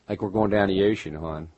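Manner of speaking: light imitation of Baltimore vowels; Baltimore accent. Showing how they talk down there in Baltimore, local accent. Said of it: "even the way they talk down there".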